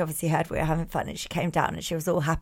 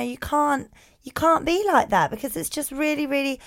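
higher-pitched earnest mummy voice; gentle reproach; 6 semitones higher than usual. Retold or imitated. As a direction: explain hurt feelings to an upset child. Retold gentle talk after big hug.

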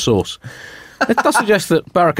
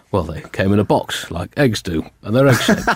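lightly voiced Obama; 4 semitones lower than usual. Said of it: "go for the full Obama".

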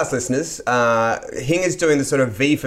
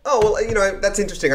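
therapist voice; 7 semitones higher than usual. Retold or imitated. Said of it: "she was like".

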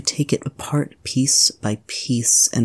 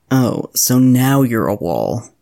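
sarcastic; 6 dB louder than usual. Retold or imitated. Sarcastic remark to the statue.

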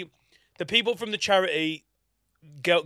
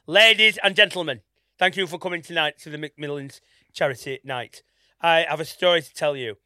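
dramatic announcement; 6 dB louder than usual. Retold or imitated. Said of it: "this is not even an exaggeration".

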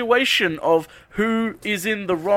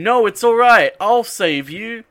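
mock heroic shout; 5 semitones higher, 5 dB louder than usual. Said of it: "Barbara going".

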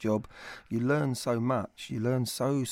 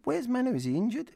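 high, startled asking after the missing player; mock alarm about a missing player; surprised question; 10 semitones higher than usual. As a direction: retell it as a puzzled, raised question.

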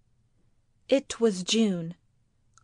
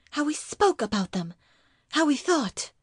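tag; 7 semitones higher than usual. Acted. Wife presses her reproach.

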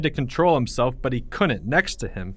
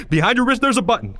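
urgent, raised, high shout; yelling; 11 semitones higher, 5 dB louder, faster than usual. Acted. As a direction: yell the instruction over the chaos. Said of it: "Greg yelled".

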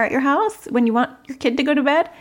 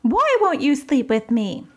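put-on pleading child; 6 semitones higher than usual. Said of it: "they might be like".

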